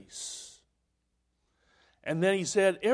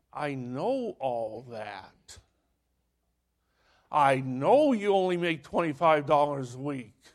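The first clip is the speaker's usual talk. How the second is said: voice of God; 4 semitones lower than usual. Retold or imitated. Voice of God speaking.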